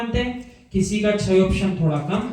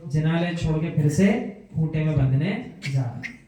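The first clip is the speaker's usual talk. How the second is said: low, subdued mock lament; mildly acted regret, voice dropped; regretful; 4 semitones lower, 4 dB quieter than usual. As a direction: sigh it out as reluctant resignation. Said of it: "मन में खेद आना चाहिए".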